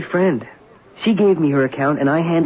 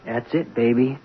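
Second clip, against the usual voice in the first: low, subdued admission of defeat; quietly beaten; resigned; 4 semitones lower, 3 dB quieter than usual. Acted. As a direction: let it sink, giving up. Broker admits his career is over.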